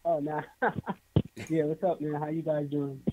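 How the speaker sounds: muffled, faint phone line; distant muffled caller. Real, not acted. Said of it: "You sound like you in the closet".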